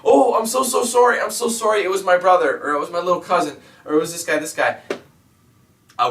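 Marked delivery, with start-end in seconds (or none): 0.0-4.8 high, mock-apologetic whiny voice; a high, mocking grovelling apology; sorry commenter. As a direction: imitate a troll begging forgiveness. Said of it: "a comment the next day saying".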